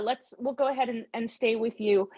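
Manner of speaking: ordinary talk, nothing marked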